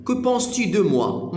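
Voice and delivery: slow, careful French for learners; slow French model. Shown as a demonstration. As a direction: pace each syllable like a language teacher. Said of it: "كو بونس تو دو".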